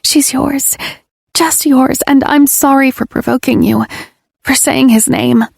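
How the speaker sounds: high, pleading confession; tearful apology. Acted. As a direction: beg forgiveness.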